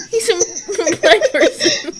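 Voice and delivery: slow, laughing through words; can barely get it out. Real, not acted. Laughing fit.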